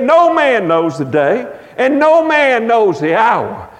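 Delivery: slow, drawn-out preacher's proclamation; big-time preaching. Retold or imitated. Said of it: "He was preaching in a big-time way".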